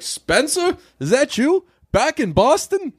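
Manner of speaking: high-pitched mock delight at the bar; mock surprised greeting. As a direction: play a gushing local spotting an old face. Bar patrons greet returning Spencer.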